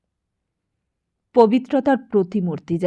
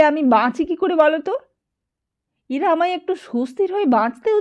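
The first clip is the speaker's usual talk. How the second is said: tearful complaint; 7 semitones higher, 4 dB louder than usual. A narrator's reading. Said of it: "আর কাঁদিস নে".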